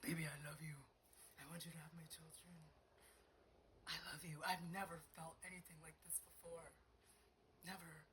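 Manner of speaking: imitated lover. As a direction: lightly voice a smitten man's declaration. Voices Patrick's declarations of love.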